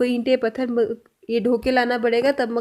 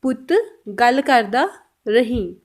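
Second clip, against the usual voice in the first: slow careful repeat; much slower than usual. Shown as a demonstration. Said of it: "Punjabi में कैसे बोलेंगे?".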